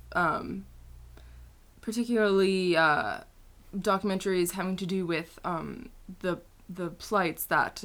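slow, halting British boy-band impression; lightly put-on, slow earnest interview voice; a singer. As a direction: draw it out with lots of ums. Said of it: "Is this Harry?".

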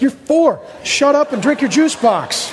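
put-on fed-up parent; exasperated parent. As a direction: shut down a pestering child. Exasperated parent answering questioning child.

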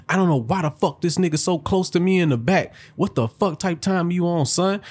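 lightly voiced angry driver rant; woman mocked while driving, mild rant; mock ranting New Yorker. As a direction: imitate her yelling at traffic. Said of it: "she just started going ham".

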